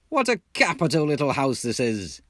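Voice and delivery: hearty call across the house; called out cheerily. Acted. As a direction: sing out bright encouragement. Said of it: "he called out cheerily".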